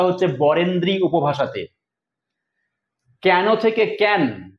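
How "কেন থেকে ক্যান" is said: ক্যান said with an open e like kæn, slowly; dialect pronunciation. Shown as a demonstration. Teacher slowly shows the Bangali dialect form ক্যান. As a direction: stretch কেন into ক্যান, slow and clear. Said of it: "বঙ্গালী উপভাষার বৈশিষ্ট্য".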